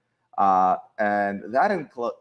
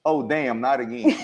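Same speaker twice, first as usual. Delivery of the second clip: put-on Chris accent; 4 semitones higher, slower than usual. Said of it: "in the best Chris accent that I can possibly do".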